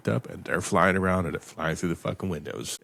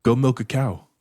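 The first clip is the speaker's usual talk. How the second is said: a raised, higher mock order from a bossy parent; mock bossy demand; 5 semitones higher, 6 dB louder than usual. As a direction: bark out a silly demand in jest. Mocking an absurd parent demand.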